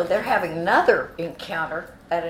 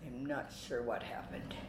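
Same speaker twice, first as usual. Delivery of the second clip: low, soft, dazed murmur; brain blown up; 7 semitones lower, 13 dB quieter, slower than usual. Retold or imitated. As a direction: say it stunned, almost to yourself. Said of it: "with my brain blown up inside my head".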